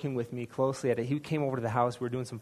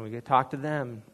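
usual speaking voice

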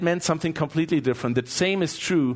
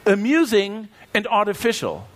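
laughing; 6 semitones higher than usual. Real, not acted.

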